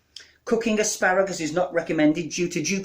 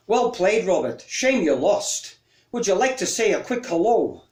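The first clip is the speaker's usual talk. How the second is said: a lightly put-on, bad Scottish accent as Ken Bruce; deliberately poor Scottish radio-host voice; 2 semitones higher than usual. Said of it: "with a very bad Scottish accent".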